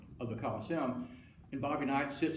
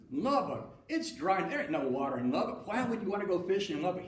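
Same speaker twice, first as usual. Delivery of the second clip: higher-pitched mock rant against Lubbock; mock scornful tirade; 5 semitones higher than usual. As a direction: tear into it as Hal, half in earnest. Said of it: "Hal tears him a new one".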